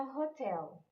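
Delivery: hotel said ho-TEL, the stress on the final syllable; stress on last syllable. Shown as a demonstration. Teacher models hotel for Brazilian students, stressing the last syllable. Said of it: "Essa palavra tem a sílaba forte como a última".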